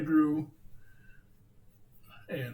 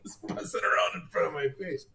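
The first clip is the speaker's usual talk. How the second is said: coughing slightly after swallowing a gnat; just swallowed a gnat. Real, not acted. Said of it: "just swallowed a gnat".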